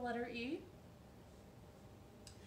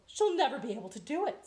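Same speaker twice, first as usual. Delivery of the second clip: scoffing hen; 4 semitones higher, 6 dB louder, faster than usual. Acted. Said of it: "said Nadine".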